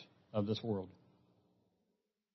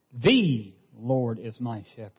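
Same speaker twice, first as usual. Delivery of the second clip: slow, leaning on "The" at the start; "The" held and weighted, the rest unhurried; stress on The; slower than usual. Shown as a demonstration. Preacher reading Psalm twenty-three aloud, slowly stressing "The". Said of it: "emphasizing each one of those words".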